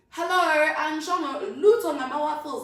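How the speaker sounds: high, loud, laughing; giggly loud joke; laughing mock intro. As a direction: introduce yourself jokingly, laughing.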